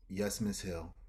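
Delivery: soft, low and timid; a small scared yes; meek reply. Retold or imitated. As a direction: answer quietly, shaken. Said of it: "I'm like".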